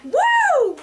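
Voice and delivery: sudden high, loud whoa; mock gasp of surprise. Mocking the film's lovers with a high loud gasp.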